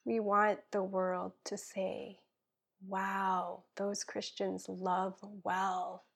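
earnest spoken prayer, dropping to a hush at times; heartfelt prayer. Acted. Guest praying for listeners, earnest prayer voice. Prays aloud on podcast.

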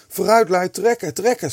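high, loud urging shout. A narrator's reading. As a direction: yell to rally the others to pull. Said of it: "schreeuwde Kees".

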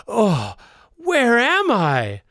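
dazed amnesiac. Pretend. Amnesiac waking slowly.

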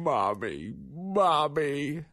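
put-on high rising little girl calls; a hint of a toddler pleading; mild plaintive mommy calls; imitated child calling.

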